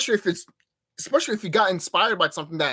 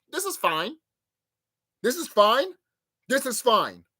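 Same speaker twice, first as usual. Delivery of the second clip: mock calm denial; 5 semitones higher, slower than usual. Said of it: "that meme with the dog".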